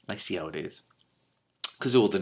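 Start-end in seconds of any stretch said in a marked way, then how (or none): 0.1-0.8 mock offended. Reader's mock-offended aside.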